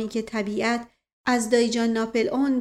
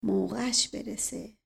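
softer, slow mutter of «موقعش برسه», «موقعش» leaned on; muttered under breath; 7 dB quieter, slower than usual. Acted. Uncle repeats the shoeshiner's words, muttering softly. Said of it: "زیر لب کلمات او را تکرار کرد".

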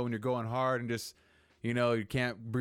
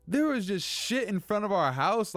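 much higher and louder outburst; livid; 9 semitones higher, 5 dB louder than usual. Real, not acted. Furious outburst over poop left in front of the house. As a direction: blow up at the thought of it. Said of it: "I was livid".

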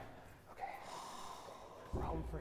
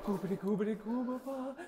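put-on babbling baby voice; baby talk; 4 semitones higher than usual. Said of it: "sing a song and sound like a baby".

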